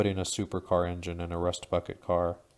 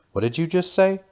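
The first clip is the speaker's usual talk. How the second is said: much higher, louder shocked scream; 12 semitones higher, 9 dB louder than usual. A narrator's reading. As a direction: shriek it in disbelief. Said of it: "the second grunt screams".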